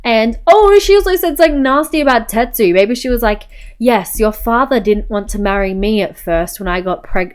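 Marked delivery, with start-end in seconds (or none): 3.8-7.3 lightly put-on English accent; accidental English accent. Mum confiding about father, lightly English accent. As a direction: voice a mother, slipping into English accent. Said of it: "why is she English all of a sudden?".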